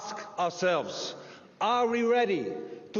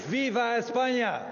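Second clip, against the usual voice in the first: rally shout; 3 semitones higher than usual. Real, not acted. Rally chant to crowd.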